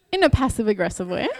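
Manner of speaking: words breaking into laughter; amused confession. Real, not acted. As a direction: admit it while laughing. Laughing at her own confession.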